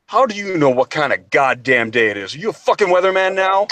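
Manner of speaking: exasperated question climbing high at the end; retold fed-up sergeant's comeback; mock-irritated retort. Sergeant to private who said good afternoon, mock exasperation.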